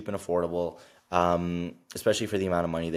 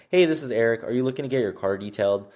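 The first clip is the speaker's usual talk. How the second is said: bright, a bit louder, like picking up a business call; phone greeting demo; 3 semitones higher, 4 dB louder than usual. Shown as a demonstration. Answering a customer's call for his detailing business, friendly and professional. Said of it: "So I'll say".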